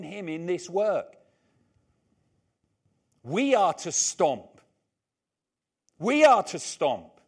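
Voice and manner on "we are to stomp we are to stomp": loud, slow, emphatic preaching; rallying call. Real, not acted. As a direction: drive the command home slowly and forcefully.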